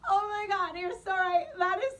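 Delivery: high, loud, panicked laugh-crying. Retold or imitated. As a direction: laugh through tears of fear. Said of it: "laugh crying".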